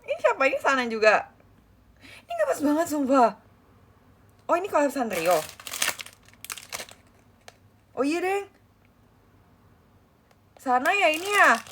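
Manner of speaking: high, bright fangirl gushing; bubbly gushing. Real, not acted. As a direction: gush over the cute merch. Gushing over a K-pop group's merch.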